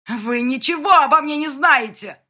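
loud, high outburst; crying out. Acted. Heroine crying out at Yan, furious. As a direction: fling the words at him. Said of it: "выкрикнула я".

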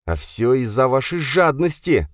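high, cold female reprimand; stern woman. Acted. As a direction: scold him as a stern official. Sofya accuses Kravchuk. (Софья холодно отчитывает инженера)

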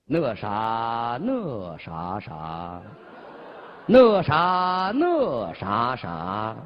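drawn-out recitation with big pitch swings; slow emotional poem reading. Acted. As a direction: recite it slowly and dramatically, words mumbled. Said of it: "主要听这个朗诵腔".

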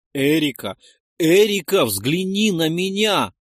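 loud, high call to his wife; desperate pleading. A narrator's reading. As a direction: call out, rising on the repeat. Begs sobbing wife to look.

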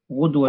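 غدوة pronounced ghudwatan; غدوة with full case ending; accusative ending. Shown as a demonstration. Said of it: "لأنه منصوب على الظرفية".

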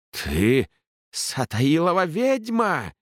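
high, slow shrieking accusation; screeching thug. A narrator's reading. A thug screeching at Ellin, high and slow. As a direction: screech it at the girl like a brute. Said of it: "заверещал головорез".

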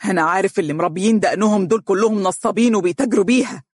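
quick, sharp accusation; sharply. Acted. Father accusing the bearded lawyer, fast sharp anger. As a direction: spit it out fast and cutting. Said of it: "قائلا بحدة".

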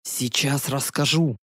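slow, low spooky voice; spooky storyteller. Acted. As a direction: tease them with a creepy tone. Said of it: "пугающим голосом".

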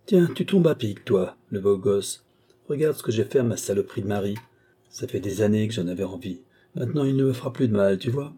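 triumphant, half-mad murderess gloating; Marie, unhinged killer. Acted. Widow to the young man at the door, gloating and unhinged. Marie speaks over husband's body.

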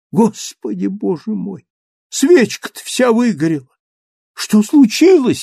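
put-on high, startled old woman; alarmed cry. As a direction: gasp it out in alarm. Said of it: "вскричала она". (испуганно вскрикнув)

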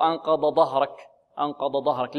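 "أنقض ظهرك" with the ظ turned into a second ض; wrong ظ as ض. Shown as a demonstration. Teacher showing the other mistake, ظ mispronounced as ض. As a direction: merge both letters into ض in "أنقض ظهرك". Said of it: "لا".

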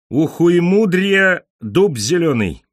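high, slow clowning lilt; tender mocking singsong. A narrator's reading. Pigeon clowns at his captor, tenderly singing each syllable. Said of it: "нежно выпивая каждый слог, кривлялся голубь".

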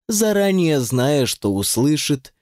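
ordinary delivery, nothing marked

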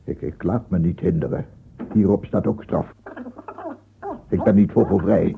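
rising to a loud, defiant protest; loud defiant old man; defiant outburst. Acted. Old man defies his accusers.

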